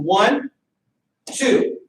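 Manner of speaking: right way, one then two flowing; smooth one two. Shown as a demonstration. Coach showing students the right way, smooth counting. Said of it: "When we're practicing slow".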